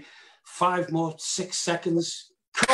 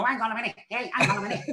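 high voice breaking into giggles; mock stifled laughter; 5 semitones higher, faster than usual. Actor imitating co-star corpsing behind the door, giggly. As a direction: try to speak through suppressed laughter.

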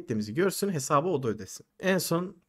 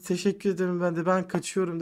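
lightly voiced young woman, higher pitch; imitated girlfriend; 4 semitones higher than usual. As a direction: quote the girlfriend in a raised voice. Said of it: "Kız geldi". (kız arkadaşı taklit eden ince ses)

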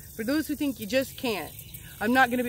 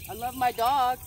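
soft and dreamy; 8 dB quieter than usual. Real, not acted. Gratitude practice outdoors, softly.

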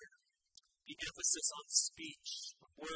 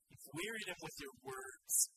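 low restated verse. Shown as a demonstration. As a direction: drop low to drive the words home. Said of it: "it was explicitly stated".

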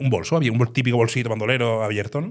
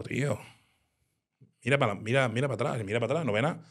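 scared hushed words; 6 dB quieter, faster than usual. Retold or imitated. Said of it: "giñado, temblando".

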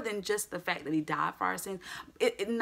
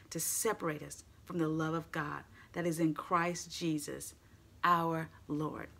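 slow, weighty scripture reading. Acted. Preacher reading Romans to the congregation, solemn and slow. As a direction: read the passage with solemn weight. Reads scripture aloud in church.

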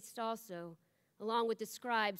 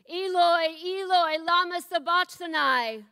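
higher, louder anguished cry out; 8 semitones higher, 15 dB louder than usual. A narrator's reading. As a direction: call it out in anguish from the cross. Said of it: "cried out with a loud voice".

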